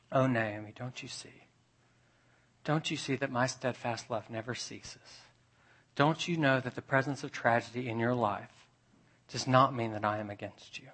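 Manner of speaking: soft, gently pleading; tender reassurance. Acted. God consoles grieving Naomi, tender reassurance. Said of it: "As if to say".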